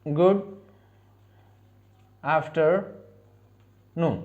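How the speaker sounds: very slow, drawn-out model pronunciation; slow demo. Shown as a demonstration. Teacher models the greeting slowly for learners to repeat. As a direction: stretch "गुड आफ्टरनून" out syllable by syllable, softly. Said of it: "दोपहर को हम क्या बोलेंगे?".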